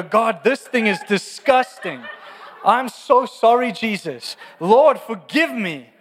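high, slow, laughing disgust; mock horrified confession, laughing; laughing mock prayer. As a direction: pray to God half laughing, half appalled. Mock prayer over the turd.

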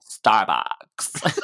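laughing through the word. Real, not acted. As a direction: giggle it out. Laughing at review.

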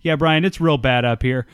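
live reporter on the scene, hand to ear; mock field reporter. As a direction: play a reporter calling in from the field. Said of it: "you got your hand to your ear and you're talking to the microphone".

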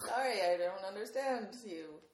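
slow, badly faked English accent. Shown as a demonstration. Retrying the assistant's apology in a poor, slowed English accent. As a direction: take a poor stab at sounding English. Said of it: "can't really do a very good English accent".

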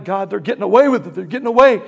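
fast, mildly aggrieved complaint to God; acted complaining. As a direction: protest quickly, building as it repeats. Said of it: "I would complain".

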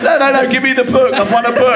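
high-pitched, hammed-up indignation; mock tantrum, pitched right up; angry protest. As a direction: imitate a furious man demanding his prize. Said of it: "gets really angry and says".

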